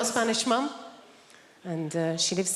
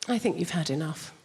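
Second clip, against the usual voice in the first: English mum; 4 semitones lower than usual. Retold or imitated. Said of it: "conversation with mum's more like this".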